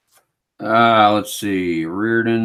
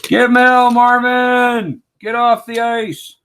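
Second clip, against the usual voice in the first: much higher, slow, squeaky egging-on; cartoonish high-pitched heckler; squeaky cheering voice; 12 semitones higher, 5 dB louder, slower than usual. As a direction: sic the Zamboni driver on Rob in a silly high voice. Cheering on the Zamboni driver.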